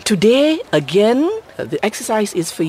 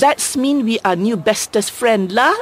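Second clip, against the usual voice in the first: Manglish; 3 semitones higher than usual. Shown as a demonstration. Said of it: "The neater way to say is".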